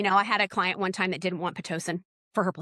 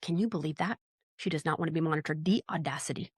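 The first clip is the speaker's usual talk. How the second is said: hushed mock gossip; 3 semitones lower, 6 dB quieter than usual. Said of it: "I'll be like".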